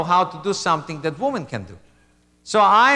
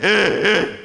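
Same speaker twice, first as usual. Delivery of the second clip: nervous laugh. Shown as a demonstration. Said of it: "it's like".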